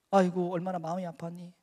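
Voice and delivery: imagined sympathetic sigh of a question; understated voice of comfort; consoling. Retold or imitated. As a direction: commiserate with someone who is hurting. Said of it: "라고 적어도 위로하실 줄 알았습니다".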